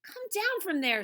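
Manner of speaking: high-pitched firm order; calling up. Acted. Wahoo orders TV star down, firm call. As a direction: call up into the tree.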